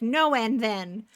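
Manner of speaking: slow, emphatic imitated "No", then "and then"; mock refusal, dragging out the words; retold refusal. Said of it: "And then he's like".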